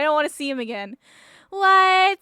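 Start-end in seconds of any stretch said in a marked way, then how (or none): 1.5-2.2 loud high shocked what; stunned loud what. Real, not acted. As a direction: blurt it in shock. Shocked outburst.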